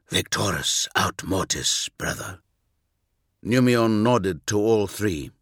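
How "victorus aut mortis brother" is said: solemn reply. Acted. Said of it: "bowed his head in solemn respect".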